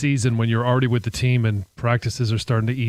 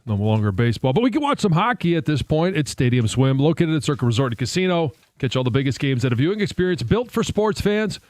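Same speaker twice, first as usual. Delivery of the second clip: ad read. Acted. Host reads a sponsor ad.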